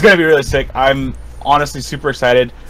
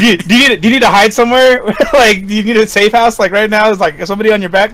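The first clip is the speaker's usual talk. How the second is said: raised-pitch, lightly voiced concerned host; fussing host; 4 semitones higher, faster than usual. Host offering a guest a safe house, mock-urgent fussing. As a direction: playfully overdo the urgent offers of help.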